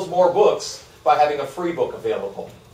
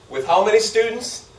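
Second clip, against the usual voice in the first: excited reveal; 7 semitones higher than usual. Real, not acted. Big reveal of a number.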